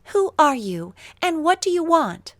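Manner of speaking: put-on Mary startled to find a strange boy in her garden; startled question. A narrator's reading. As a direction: challenge the stranger in surprise.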